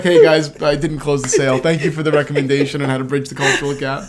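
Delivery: laughing mock group-text voice; laughing through text. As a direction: read the buddy's text, cracking up. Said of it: "he texted the group and he was like".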